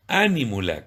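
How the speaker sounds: "Ánímula" with the stress on the first A, ÁN-i-mu-la, like an esdrújula. Shown as a demonstration. Priest teaching viewers the word, first A stressed. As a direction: lean on the opening Á of "Ánímula". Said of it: "con acento en la A, como esdrújula".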